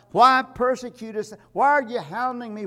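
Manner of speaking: loud, high calling voice from heaven. Acted. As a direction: cry out like a voice from the sky. Preacher voicing Jesus from heaven.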